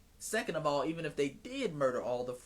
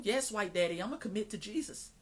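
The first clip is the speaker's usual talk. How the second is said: lightly mocking, higher-pitched eager-to-please voice; mock submissive convert; 4 semitones higher than usual. Vetted convert answering white missionaries, mock submissive. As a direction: play a fawning yes-man, jumping up in pitch. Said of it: "when these coons come over here, they're vetted".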